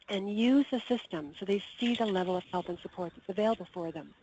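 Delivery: losing voice, straining to get words out. Real, not acted. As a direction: voice giving out, fading to nothing. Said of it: "I'm losing my voice".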